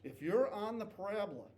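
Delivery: slow, deliberate teacher read; slow and careful; said very slowly. Shown as a demonstration. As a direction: spell it out slowly for the class. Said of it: "I'll say this very slowly".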